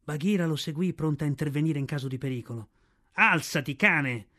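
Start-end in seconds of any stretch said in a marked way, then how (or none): 3.1-4.3 Alzati barked out, cane! harsh; shouted. A narrator's reading. Mowgli shouting at Shere Khan to stand. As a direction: order the tiger up with a shout. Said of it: "gridò Mowgli".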